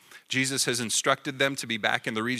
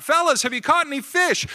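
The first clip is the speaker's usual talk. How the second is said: higher, louder call across the water to the boat; Jesus calls to the disciples from the shore, loud; 11 semitones higher, 6 dB louder than usual. Retold or imitated. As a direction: hail them from the beach. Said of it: "He called out".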